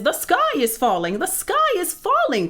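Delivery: high, frantic squawked alarm; clucking hen. A narrator's reading. Hen interrupting the narrator's warning, frantic high clucking. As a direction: cut in, pitch climbing to a squawk. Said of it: "clucked Chicken Licken".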